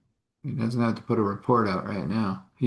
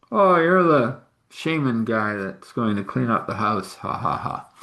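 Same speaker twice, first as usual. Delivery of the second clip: mocking taunt. Possessed son greets the shaman at the door, mocking.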